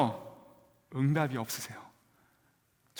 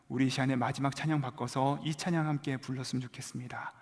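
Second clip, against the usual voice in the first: mild earnest leader. Retold or imitated. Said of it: "이렇게 말씀하시는 거예요". (대표 간사의 차분하고 진지한 말투)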